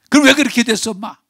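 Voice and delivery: put-on high, loud startled question from the child; child's startled question. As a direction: ask it suddenly like a surprised child. (놀라서 높고 크게 묻는 아이)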